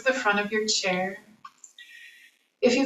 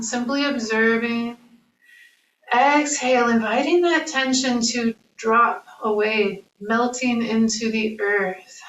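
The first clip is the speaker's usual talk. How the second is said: calm breathing cues with long pauses; measured, unhurried yoga-teacher guidance; guided meditation. Acted. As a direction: lead a body scan, leaving room for each breath.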